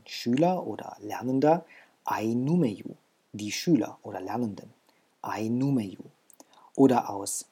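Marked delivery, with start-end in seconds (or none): 2.0-3.0 ai numeju with stress on nu; plural ai numeju. Shown as a demonstration. Teacher models the plural form, stress on nu. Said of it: "Betonung nicht verändert". 5.2-6.0 ai numeju whispered; whispered repeat. Shown as a demonstration. Teacher whispers the plural for learners to echo. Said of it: "Betonung nicht verändert".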